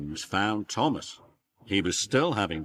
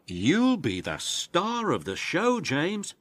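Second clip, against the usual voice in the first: tooting Thomas; 8 semitones higher than usual. Acted. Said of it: "tooted Thomas".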